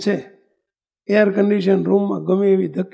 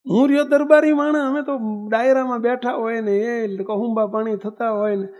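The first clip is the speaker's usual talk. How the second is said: bold darbar. Retold or imitated. Darbar bargains boldly with Bapa.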